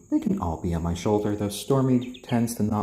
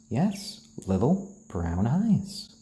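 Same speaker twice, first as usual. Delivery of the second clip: pet talk; 4 semitones higher, slower than usual. Real, not acted. Cooing to chicken on shoulder.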